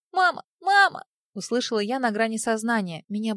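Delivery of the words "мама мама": put-on high, loud little boy calling mama; a small child crying out for his mother. A narrator's reading.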